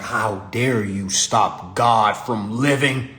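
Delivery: drawn-out, grand mock outrage; mock indignation. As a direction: stretch each word out, pompous and slow. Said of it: "next time I get pulled, I'm like".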